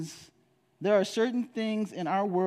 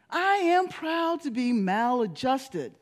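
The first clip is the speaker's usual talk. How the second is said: slow, deliberate title; emphatic proclamation; 4 semitones higher, slower than usual. Real, not acted. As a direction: land "I am proud to be maladjusted" slowly. Repeats title as climax.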